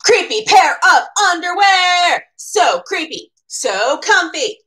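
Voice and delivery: high, loud thrilled exclamation; delighted discovery. Acted. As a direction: gasp with delight at the find. Jasper delighted by underwear.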